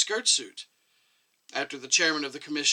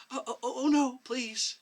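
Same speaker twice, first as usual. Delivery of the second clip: quick, higher protest; 11 semitones higher than usual. A narrator's reading. Chubby doctor protests the elderly doctor's pasta jab, higher protest. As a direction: wave off the claim, protesting. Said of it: "protested the chubby doctor again".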